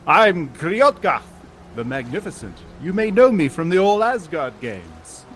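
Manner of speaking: grand self-introduction. Acted. Caped visitor introduces himself to strangers, mildly grandiose. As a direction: announce yourself with a touch of grandeur. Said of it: "flits back his cape and says".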